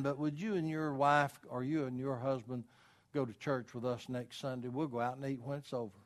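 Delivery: kindly asking. Pretend. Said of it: "you would very kindly say".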